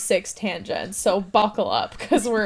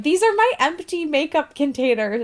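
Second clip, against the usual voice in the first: YouTuber haul voice; 6 semitones higher than usual. Retold or imitated. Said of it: "it's just like".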